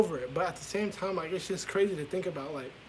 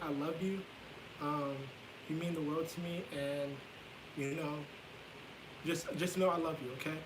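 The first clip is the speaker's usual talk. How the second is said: soft, low-volume retelling of mom; talking very low; 9 dB quieter than usual. Retold or imitated. Mom reassuring her child before parting, talking very low. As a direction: say it gently under the usual volume. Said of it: "she was talking very low".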